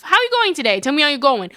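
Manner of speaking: put-on cheery, barely-accented greeting; bad accent character. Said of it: "giving everyone really bad accents".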